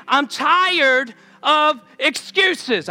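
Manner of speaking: slow, softened version without the force; gentler repeat. Acted. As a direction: say it easier this time, no slap. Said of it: "I won't slap y'all as hard".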